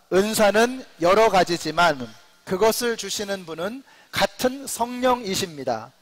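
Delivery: slow, measured Bible reading; scripture read-along. Real, not acted. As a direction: lead a congregation reading aloud, deliberately. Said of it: "우리 한번 같이 한번 읽어보실까요". (또박또박 천천히 성경 낭독)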